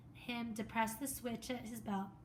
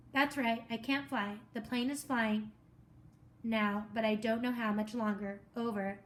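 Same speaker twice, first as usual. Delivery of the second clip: urgent reply; 3 dB louder than usual. Acted. Boy replying on radio.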